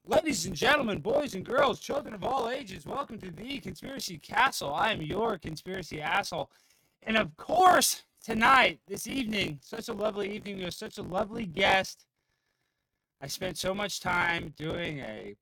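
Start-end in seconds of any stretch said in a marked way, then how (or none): 0.1-12.1 loud, high big-top ringmaster announcement. Pretend. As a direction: roll out the welcome like a circus host. Mock circus welcome to show.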